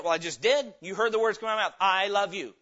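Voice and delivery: loud, exasperated insistence; frustrated husband. Acted. Husband insists to wife he said it, frustrated. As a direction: force the words out, fed up. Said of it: "is he frustrated with her".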